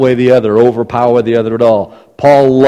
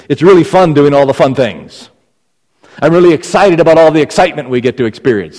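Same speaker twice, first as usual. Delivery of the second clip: louder, with punch on "fun" both times; emphatic example; 4 semitones higher, 5 dB louder than usual. Shown as a demonstration. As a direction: hit "excited" and "excitement" hard. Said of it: "maybe you get the idea then of the emphasis".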